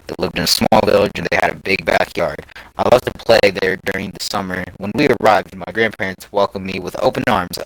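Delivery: measured first-person narration; story reading. A narrator's reading. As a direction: read it out like an online scary story. Reads a scary story aloud.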